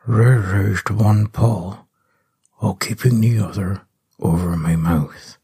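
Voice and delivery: slow, hushed whisper; slow whispered telling; whispered narration. Acted. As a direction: whisper so nothing hears.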